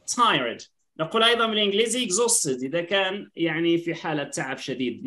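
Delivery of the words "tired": "tired" stretched out slowly as a pronunciation model; slow model word. Shown as a demonstration. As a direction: say "tired" slowly so it can be copied. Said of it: "We say".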